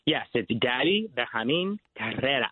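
ordinary talk, nothing marked

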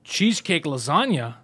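slow, baffled reading of the menu; dumbfounded friend. Retold or imitated. Friend mocked for marvelling at the menu, slow and baffled. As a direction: drawl it like it's brand new. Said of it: "he's like".

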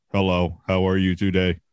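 monotone robot greeting; flat robot voice, no feeling. Retold or imitated. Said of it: "We're gonna sound like fucking robots".

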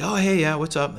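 high, bright, breezy hello; mock casual greeting. Grocery buyer greeting Justin, high breezy cheer. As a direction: greet him with sudden cheer. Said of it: "he's like".

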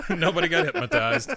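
laughing through the words. Real, not acted. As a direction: burst out laughing as you say it. Laughing while speaking.

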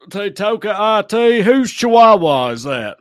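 high, loud redneck Spanish; thick redneck accent; redneck learning Spanish. Acted. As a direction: mangle Spanish with a redneck twang. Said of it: "Redneck learning Spanish".

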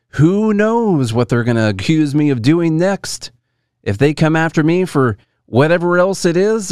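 a light send-up of his grievance; half-hearted impression, rising to a high slow finish; mock Andrew Tate. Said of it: "he had to go out there and say".

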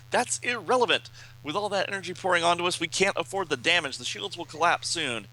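high-pitched, insistent comic hero; agitated Brainiac Five. Acted. Brainiac Five warning that shields will fail, urgent. Brainiac arguing during attack, acted.

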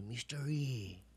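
slow, hushed mock Asian accent. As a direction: imitate the medic's put-on Asian accent. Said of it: "That's how he says it".

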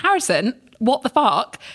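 incredulous reply. Retold or imitated. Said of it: "I replied being like".

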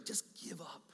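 defeated whisper. Pretend. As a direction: breathe it like a voice of despair.

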